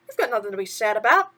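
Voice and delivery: chirpy sidekick asking what's wrong; a hint of cartoon mouse; lightly voiced mouse. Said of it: "Timothy continued".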